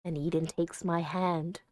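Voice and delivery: low, even storytelling voice; story narration. Acted. Player reading the game's final scene, low story narration. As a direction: read it low and gently measured.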